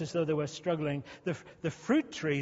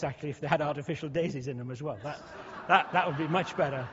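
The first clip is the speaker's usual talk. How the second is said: laughing; faster than usual. Real, not acted. Laughs at own plastic grass joke.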